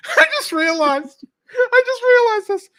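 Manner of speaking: high, loud burst of discovery; sudden realization. Real, not acted. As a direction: blurt it out as it dawns on you. Sudden realization mid-recap.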